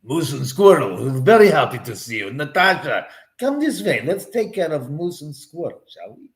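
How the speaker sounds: lightly voiced cartoon villain Boris, gloating; a hint of a sly Russian cartoon spy welcoming his foes; Boris Badenov. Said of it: "Boris Badenov".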